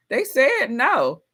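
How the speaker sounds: normal talking voice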